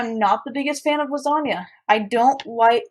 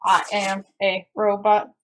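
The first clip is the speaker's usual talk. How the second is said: slow, even robot voice; 2 semitones lower, slower than usual. Pretend. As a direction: speak like a deadpan robot. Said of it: "makes me sound a little bit like a robot".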